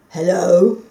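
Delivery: a mild suspicious hello; suspicious growl. Acted. The dog greeting the returning fox, mildly suspicious. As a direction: greet him warily. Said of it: "growled the dog suspiciously".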